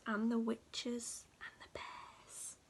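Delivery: fading to near silence; fading whisper. A narrator's reading. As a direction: shrink into a frightened whisper. Scary list fades.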